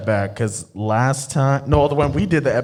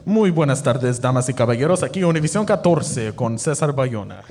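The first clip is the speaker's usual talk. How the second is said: Spanish TV announcer. Pretend. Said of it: "We should pitch this to the Mexican T V channel".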